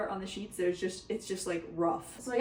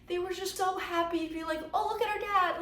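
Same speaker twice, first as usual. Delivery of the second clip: teary laugh; 9 semitones higher, 3 dB quieter than usual. Real, not acted. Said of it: "I'm crying".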